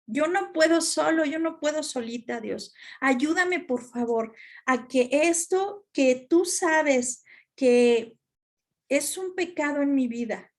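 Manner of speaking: humble pleading prayer to God. Shown as a demonstration. Models a child's prayer. (oración suplicante)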